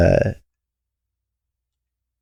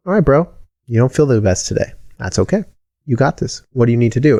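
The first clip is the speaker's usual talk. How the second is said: inner coach voice; 4 semitones higher than usual. Retold or imitated. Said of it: "my emotional toolkit says".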